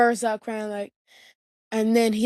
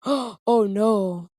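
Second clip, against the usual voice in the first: mock scolding dad; slower than usual. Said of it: "and he's like".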